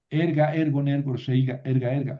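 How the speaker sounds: Erga, ergon stressed on ER; quick rhythmic drill hitting the ER of Erga; stress on first syllable. Shown as a demonstration. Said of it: "No se mueve el acento".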